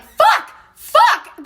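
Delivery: very high, loud acted panic; panicked cursing. Friends seeing she got run over, panicked. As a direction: yelp it like friends in trouble.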